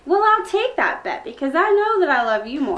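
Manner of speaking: gushing, squealy lovey-dovey voice; giggly late night call. Acted. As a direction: coo it like a smitten teen. Lovey-dovey phone call skit.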